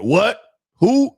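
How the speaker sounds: high, feigned-clueless questions; mock denial. Coach mimicking people who deny he coined it, mock denial. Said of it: "Niggas still gonna deny it".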